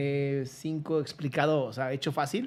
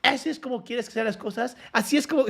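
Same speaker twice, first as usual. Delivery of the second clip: indignant retort; 7 semitones higher than usual. Retold or imitated. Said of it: "lo tira y le dice".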